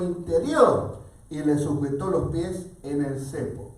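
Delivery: animated, emphatic storytelling; Bible story narration. A narrator's reading. Preacher recounts the arrest and earthquake, animated storytelling. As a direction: drive the story forward, lifting the dramatic moments.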